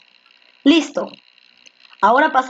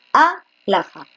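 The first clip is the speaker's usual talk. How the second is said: alhaja broken up to test where the stress falls; testing syllable stress; slower than usual. Shown as a demonstration. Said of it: "Es una grave".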